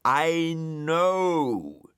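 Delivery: the dog losing his temper at the snail; screeching. A narrator's reading. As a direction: shriek it in frustration. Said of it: "screeched Dougal".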